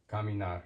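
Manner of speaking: "caminar" opened with a hard k; k sound starting "caminar". Shown as a demonstration. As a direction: say "caminar" as kah-mee-NAR. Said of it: "so it's a hard k".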